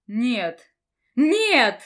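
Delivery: loud, rising desperate scream; shouted no. A narrator's reading. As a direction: scream it in denial. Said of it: "закричала Дранкива".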